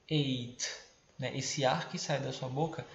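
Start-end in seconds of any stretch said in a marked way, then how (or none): 0.1-0.6 Eight with a puffed final t; breathy t. Shown as a demonstration. Teacher showing the aspirated t, puff of air. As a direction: blow out the t of Eight. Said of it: "você tenta falar soprando ela".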